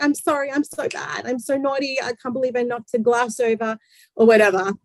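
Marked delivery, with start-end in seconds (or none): 0.0-3.8 hint of a contrite little kid, pitched up; self-blaming child. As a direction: imitate a child owning up, lightly higher. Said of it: "Like, the child's like".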